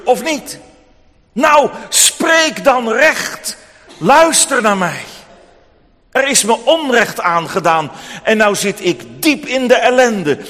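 hoge, luide, trage eis van een woedende weduwe; schreeuwend. Acted. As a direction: schreeuw het uit over straat. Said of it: "En ze schreeuwt over straat". (woedende weduwe die de rechter toeschreeuwt)

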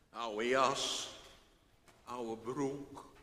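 usual speaking voice

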